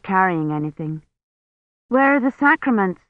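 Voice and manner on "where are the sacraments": higher-pitched questioning call. A narrator's reading. Kivrin to the priest at the door, calling out. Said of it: "she called to him".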